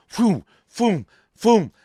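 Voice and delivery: loud, high "foom, foom" whooshes; imitated throwing whooshes; whooshing throws. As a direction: fling each foom like a paper out the window. Imitating papers flying from car.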